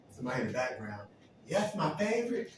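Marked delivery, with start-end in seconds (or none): 1.5-2.5 high, loud, laughing exclamation; acted glee, pitched way up; mock delighted cheer. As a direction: call it out gleefully from the background. Acted background person cheering.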